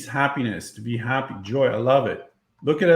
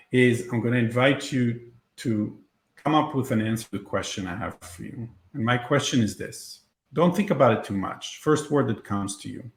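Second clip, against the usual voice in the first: guided meditation. Acted. Leads a visualization.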